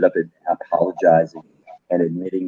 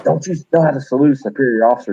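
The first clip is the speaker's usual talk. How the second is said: fast, higher mock drill-instructor bark; drill sergeant tirade; 6 semitones higher, faster than usual. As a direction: chew them out like a gung-ho officer. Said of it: "ripping into him like he's watched Full Metal Jacket".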